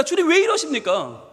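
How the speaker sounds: high-pitched, pleading outcry to God; acted despairing protest in prayer; acted anguished plea. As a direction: plead as a sufferer at wits' end. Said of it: "고통의 자리에서 우리 주님께 외칩니다".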